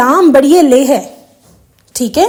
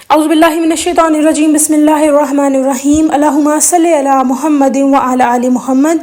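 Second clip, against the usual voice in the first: reciting prayer. Acted. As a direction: recite it measured and careful. Recites the Durood aloud.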